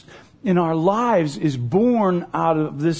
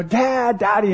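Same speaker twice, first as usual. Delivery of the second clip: higher-pitched child's call, lightly imitated; imitated crying child; 4 semitones higher than usual. Little girl calling for her father down the hallway, mock crying. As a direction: mimic a little girl calling tearfully for Dad. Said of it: "and she's crying".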